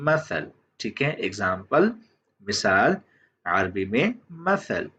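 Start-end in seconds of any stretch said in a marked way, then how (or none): 0.1-0.5 मसल with a th-like स; Arabic pronunciation. Shown as a demonstration. Teacher showing the written Arabic pronunciation, मसल with th-like स. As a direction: pronounce मसल carefully as Arabic. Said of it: "इसकी Arabic pronunciation".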